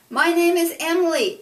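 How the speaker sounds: high and loud introduction; loud booming voice. A narrator's reading. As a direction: boom your name at the captain. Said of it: "Emily said in her Emily voice".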